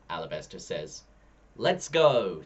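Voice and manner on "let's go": eager. A narrator's reading. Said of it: "says Storm".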